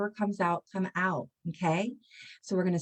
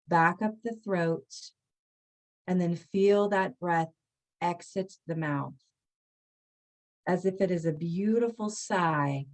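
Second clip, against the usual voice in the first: guided breath meditation. Acted. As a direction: ease them down the body, one phrase at a time.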